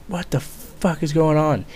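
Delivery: slow, high-pitched disbelief; retold bewilderment. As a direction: stretch it out, baffled, without raising the volume. Retold bewilderment at screaming sergeant.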